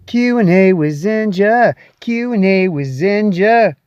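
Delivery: slow, loud show-intro chant; drawn-out, punched segment title; segment jingle. Pretend. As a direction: announce it like a catchy jingle, twice.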